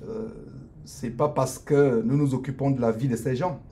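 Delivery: normal talking voice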